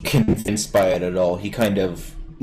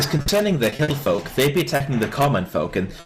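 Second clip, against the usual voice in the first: higher-pitched, prim disbelief; incredulous young noble; 4 semitones higher than usual. Acted. Boy lord picks apart servant's story, incredulous. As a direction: question his story like a doubting little lord. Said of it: "looks at you incredulously and says".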